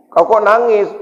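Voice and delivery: mock mother questioning her child; worried mother. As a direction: ask like a mum who spots tears.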